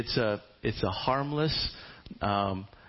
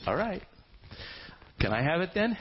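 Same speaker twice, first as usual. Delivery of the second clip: eager ask; 7 semitones higher than usual. Acted. Boaz eagerly asks.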